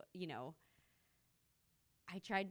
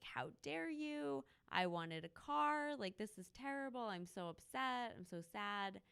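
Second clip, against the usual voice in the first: mock bratty outrage; 5 semitones higher than usual. Brat scolding client over birthday gift, hammed-up high whine. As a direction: overplay a spoiled girl's disappointment. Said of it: "I would have to say".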